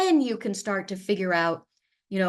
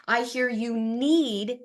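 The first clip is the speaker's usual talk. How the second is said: reflecting back. Shown as a demonstration. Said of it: "repeat back what it is you're hearing".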